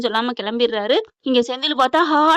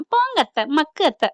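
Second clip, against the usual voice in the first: playful line much higher, cheeky; teasing squeal; 4 semitones higher than usual. Retold or imitated. Daughter-in-law teases mother-in-law, squeaky high. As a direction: tease her like a child.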